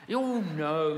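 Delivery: a hint of a dismissive lady. Lady voiced refusing.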